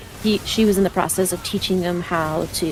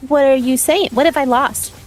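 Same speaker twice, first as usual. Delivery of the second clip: indignant protest; 7 semitones higher than usual. Real, not acted. Defending against partner's teasing.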